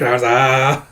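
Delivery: drawn-out "ah" squawk; imitated squirrel cry. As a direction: mimic a squirrel's yell. Imitates what the squirrel does.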